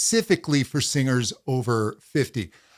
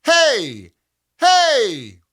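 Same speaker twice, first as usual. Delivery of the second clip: higher, louder easy call; easy calling hey; 8 semitones higher, 6 dB louder than usual. Shown as a demonstration. Coach demonstrating an easy call, hey. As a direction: call out without strain. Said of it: "stay where it feels easy".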